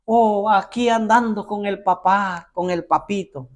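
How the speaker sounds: mock pious tone. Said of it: "religiosamente que le llaman".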